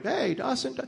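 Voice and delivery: high, light imitation of calling out; retold searching call; calling for son.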